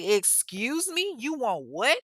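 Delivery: sassy incredulous excuse me. Retold or imitated. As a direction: ask it like you can't believe your ears. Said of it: "Angela Bassett ... head turn".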